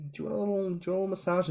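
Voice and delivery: lightly voiced coaxing friend; sweet offer. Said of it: "being so adorable and so sweet and going".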